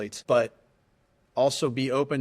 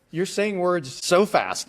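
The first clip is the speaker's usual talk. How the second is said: high, drawn-out complaint; mock-helpless plea to a fast talker; overwhelmed plea; 6 semitones higher, 4 dB louder, slower than usual. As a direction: stretch it out, pitched up in exasperation. Acted plea to fast ground control.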